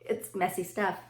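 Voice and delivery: talking around a toothbrush; while brushing teeth. Real, not acted. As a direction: mouth full of toothpaste. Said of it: "I'm brushing my teeth with my left hand".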